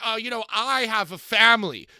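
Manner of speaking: put-on sassy, drawn-out, bragging little flex tone. Retelling the video message he sent after missing last week's episode, mimicking a sassy brag. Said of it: "kind of giving us a little bit of a sassy video message".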